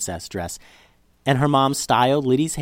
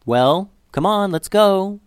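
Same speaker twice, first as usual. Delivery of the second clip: higher, drawn-out urging from the dog; impatient dog; 7 semitones higher, 4 dB louder, slower than usual. A narrator's reading. Dog eyeing Liddy to get moving, impatient urging. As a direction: coax her along, stretched and high. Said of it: "looked at Liddy like".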